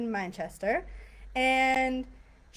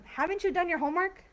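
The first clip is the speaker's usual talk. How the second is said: scolding parent; 8 semitones higher, faster than usual. Shown as a demonstration. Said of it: "it just shows more emotion".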